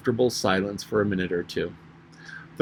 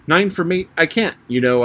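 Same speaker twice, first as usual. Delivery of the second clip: higher-pitched, prompt answer; quick to reply, lightly acted; very ready reply; 6 semitones higher, 3 dB louder than usual. A narrator's reading. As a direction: answer readily, starting high. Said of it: "Alice replied very readily".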